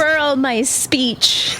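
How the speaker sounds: slow, hammed-up oratory; slightly pompous pretend speech opening; mock speechmaking. Co-host faking a prepared closing speech, mock-grand.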